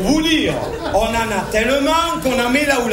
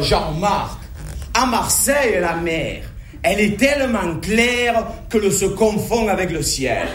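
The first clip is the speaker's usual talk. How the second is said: put-on Marseille accent; 3 semitones lower than usual. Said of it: "Moi, je préfère dire".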